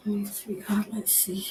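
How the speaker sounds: gentle hushed endearment; tender whisper. Real, not acted. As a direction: comfort her under your breath. Medium comforting spirit.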